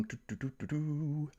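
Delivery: soft absent-minded doo-doo-doo; idle doo-doo filler. Real, not acted. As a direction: vocalise quietly while scanning the chat. Vocal filler while scanning the chat.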